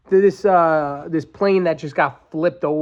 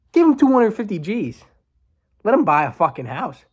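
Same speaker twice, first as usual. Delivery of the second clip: fired-up rant; 5 semitones higher than usual. Real, not acted. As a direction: let it burst out in anger. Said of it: "this stuff gets me fired up".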